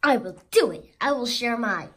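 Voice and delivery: a big determined shout; loud resolve. Acted. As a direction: declare it with heroic resolve. Character resolves loudly.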